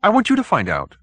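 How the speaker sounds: high, slowing into a fearful admission; frightened little man. Acted. Hoag admitting fear to the detective, high and anxious. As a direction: confess the fear at the end.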